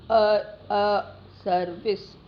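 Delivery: "service" drawn out slowly, weak first sound; slow schwa demo. Shown as a demonstration. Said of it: "It is learn".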